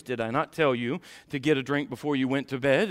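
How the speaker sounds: mildly voiced patient mom; kind, compassionate. Mom reminding son at bedtime, kind and compassionate. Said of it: "in a kind and compassionate voice".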